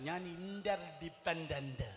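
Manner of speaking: slow, drawn-out ഞാൻ ഇന്റർഡിപെൻഡന്റ്, each syllable held; slow declaration. Shown as a demonstration. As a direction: say ഇന്റർഡിപെൻഡന്റ് slowly and deliberately. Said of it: "ഒരിക്കൽ കൂടെ".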